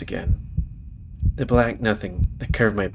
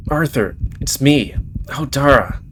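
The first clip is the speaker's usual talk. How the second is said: sad and worried; 4 semitones higher than usual. Acted. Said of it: "She sounds very sad and worried".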